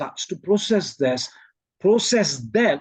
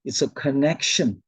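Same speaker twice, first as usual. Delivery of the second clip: imitating Shivani Ben; 4 semitones lower than usual. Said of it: "What did she say?".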